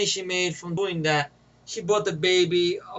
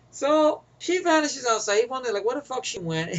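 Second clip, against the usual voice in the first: higher voice, fighting back laughter; cracking up; 5 semitones higher than usual. Real, not acted. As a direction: try to tell it while starting to laugh. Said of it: "This part always makes me crack up".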